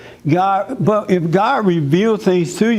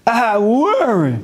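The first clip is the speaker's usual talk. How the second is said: high, slow whiny wife; high drawn-out mock wife saying I worry; 6 semitones higher, slower than usual. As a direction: mimic her plaintive excuse. Mimicking wife's excuse.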